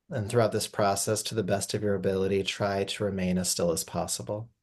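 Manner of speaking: calm, unhurried guiding voice with long pauses; gentle yoga nidra guidance, even and spacious; guided meditation. Acted. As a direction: ease them into rest, phrase by phrase. Leads a yoga nidra rest.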